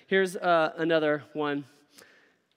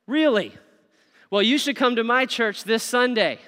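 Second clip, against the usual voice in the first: bright, raised invite; demo invitation line; 4 semitones higher, 5 dB louder than usual. Shown as a demonstration. Preacher showing the congregation an eager invite. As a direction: sell it with real surprise. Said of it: "You ready?".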